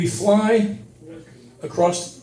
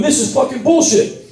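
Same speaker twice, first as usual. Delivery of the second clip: fed-up higher-pitched rant; angry outburst; 6 semitones higher than usual. Retold or imitated. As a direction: blow up at the whole airport. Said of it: "I start carrying on going".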